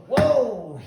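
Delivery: loud, high imitated "whoa"; sudden retold exclamation. Promoter snatching back contracts, loud sudden exclamation. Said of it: "real fast, he goes".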